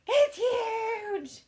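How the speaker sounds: put-on high, loud, crying little girl; frightened child shout. Mom imitating her daughter shrieking about the spider. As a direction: shriek it like a terrified small kid.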